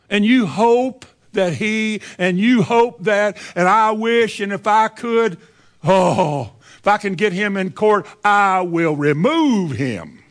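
rising fury against the ex; hammed-up vengeful outburst; vengeful anger. Voicing an abandoned, vengeful spouse.

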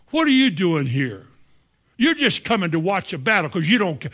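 a hint of annoyed older brothers; scolding brothers.

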